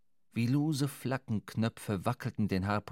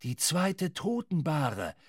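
Ahab crying out; 4 semitones higher, slower than usual. A narrator's reading. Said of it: "Schrie Ahab aus dem Boote".

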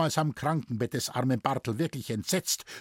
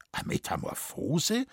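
slow, softer, rising "Metamorphose?"; puzzled question; 4 semitones higher, 4 dB quieter than usual. Acted. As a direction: echo the word in disbelief. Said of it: "fragte mein Vater". ("Metamorphose" langsam, leiser, fragend ansteigend)

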